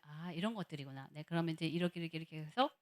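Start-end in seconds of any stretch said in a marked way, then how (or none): 0.0-1.1 low, very soft musing; hushed thought to oneself; quiet realisation. Retold or imitated. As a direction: let it dawn on you under your breath. Retold inner realisation.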